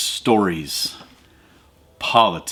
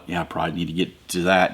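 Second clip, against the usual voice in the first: weary aside; 7 semitones lower, 6 dB quieter than usual. Retold or imitated. Inner voice sighing at chores.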